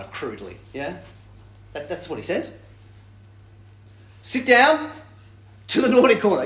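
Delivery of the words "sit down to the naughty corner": much higher, much louder scolding; strict telling-off. Retold or imitated. Jesus scolding demons like naughty children, loud strict. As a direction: scold like a parent sending a child away. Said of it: "it's a stern, strict, authoritative".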